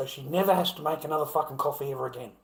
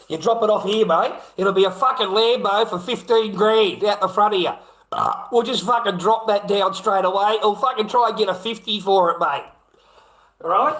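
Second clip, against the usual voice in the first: raised, louder cheeky wheeling and dealing; loud mock dealer pitch; 3 semitones higher, 3 dB louder than usual. Real, not acted. Streamer loudly joking to a viewer about dumping his Lambo, raised and cheeky. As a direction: hammer out a cheap resale like a dodgy dealer.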